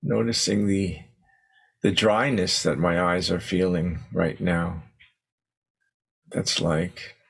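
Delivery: unhurried meditation guidance with long pauses; guided meditation. Acted. Teacher settling the group into posture and breath, guided meditation. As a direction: ease them gently into stillness, leaving space between phrases.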